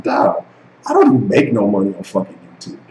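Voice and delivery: normal talking voice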